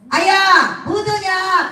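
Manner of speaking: high, calling Jeolla mother-in-law. Acted. Mother-in-law phones each morning, high Jeolla dialect. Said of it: "전라도 시어머니가".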